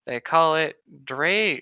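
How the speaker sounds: slow, halting try at Dra-; struggling pronunciation. Real, not acted. Reading the elf word to friends, slow and halting. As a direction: stumbles over the first syllable. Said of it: "not even gonna attempt to say that word".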